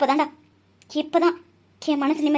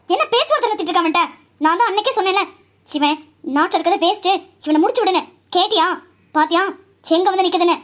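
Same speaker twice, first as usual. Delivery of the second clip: scornful scolding; 3 semitones higher, 4 dB louder than usual. Acted. Scolding father with a mocking laugh.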